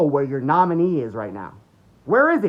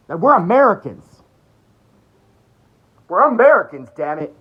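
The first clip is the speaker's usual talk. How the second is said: loud, higher patriotic outcry; rallying shout; 5 semitones higher, 10 dB louder than usual. Real, not acted. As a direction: rouse the crowd with pride.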